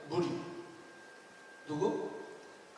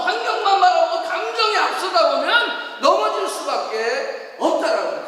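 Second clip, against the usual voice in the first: loud, raised preaching voice; forceful preaching; 7 semitones higher, 9 dB louder than usual. Real, not acted. Pastor warning the congregation about losing spiritual sight, forceful preaching. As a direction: drive each warning home at high volume.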